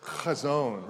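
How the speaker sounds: "Chazon" with a raspy ch from the back of the throat; Hebrew guttural. Shown as a demonstration. Pastor leading the congregation in "Chazon", throaty ch. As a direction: lead the room in "Chazon", throaty ch. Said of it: "say it with me".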